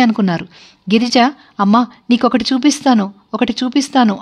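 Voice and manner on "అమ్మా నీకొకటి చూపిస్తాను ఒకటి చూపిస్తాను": teasing, playful coaxing of mother. Acted. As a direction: dangle the surprise gently. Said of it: "మురిపించి మురిపించి".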